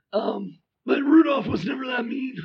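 raspy voice. Real, not acted. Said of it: "I sound like a smoker".

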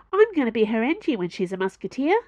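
fast, high, eager rush; eager gush. Acted. Eager kid boasts about her future job, fast and bright. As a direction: tumble it out, thrilled.

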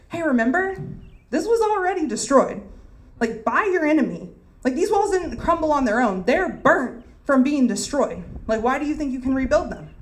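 high, mocking taunt; sarcastic taunt. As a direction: rub it in, sneering. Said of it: "what Sanballat is saying here is".

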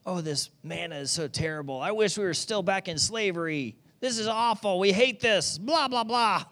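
a light mock whine that sours into a sneer; whiny complaining Israelites. Preacher mocking the grumbling Israelites, lightly whining. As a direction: grumble like a spoiled crowd, half-hearted. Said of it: "They begin to complain in the desert".

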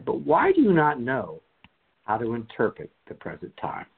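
emphatic Bible reading with rises on key phrases; deliberate lectern reading; scripture reading. Acted. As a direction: proclaim the passage with measured pauses. Reads scripture aloud.

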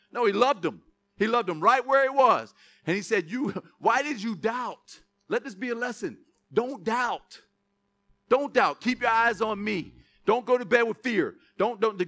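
mildly emphatic sermon delivery; preaching exhortation. Acted. Preacher repeats Jesus' lesson to the church, emphatic preaching. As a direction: urge the congregation with steady insistence.

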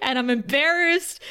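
imitated flustered complaint; embarrassed frustration. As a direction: act out his embarrassment, lightly exaggerated. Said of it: "he goes from embarrassment to frustration".

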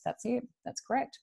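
excited confirmation. Retold or imitated. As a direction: she can't believe it's right. Client confirming the spirit's message.

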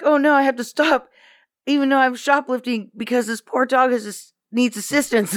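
high, fretful mock voice; worried shoplifter. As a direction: fuss over the poor dog. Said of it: "they'd be like".

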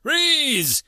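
high, loud barked order; shouted command. Acted. Officer ordering the armed human to freeze, loud shout. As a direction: stop him dead with one word. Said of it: "he shouted".

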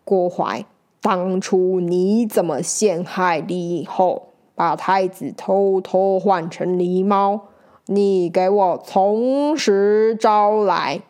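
slow, stern judge's demand; stern command. Acted. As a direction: order him to confess, slowly. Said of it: "喝道".

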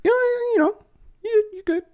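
squeaky falsetto, playfully reassuring; high squeaky voice. Pretend. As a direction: jump way up into a silly falsetto. Playful reassurance after quiz answer.

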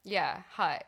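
hut said with a short flat uh vowel; Boston hut. Shown as a demonstration. Friends joking about Boston vowels, saying hut. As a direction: say hut like hut, not hot. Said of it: "Instead of hot".

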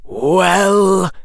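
high, short serpent prompt; snake hiss. A narrator's reading. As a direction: hiss it, waiting for an answer. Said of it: "hissed the swaying form".

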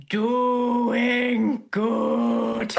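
half-laughing doing good; laughing reply. Acted. Spyro replies to the giant, laughing as he speaks. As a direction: answer the giant cheerfully through a laugh. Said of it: "I'm going to respond".

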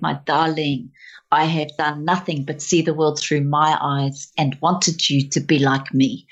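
lightly voiced South African mother; measured confession in a South African accent. South African mum confessing to her standing daughter, South African accent. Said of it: "keep going with the South African accent".

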